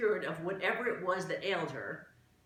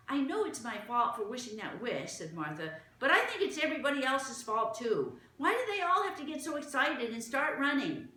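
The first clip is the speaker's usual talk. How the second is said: put-on higher, louder protesting girl; a child pushing back, a bit heated; indignant Martha; 9 semitones higher, 5 dB louder than usual. Martha blames everyone's panic, indignant.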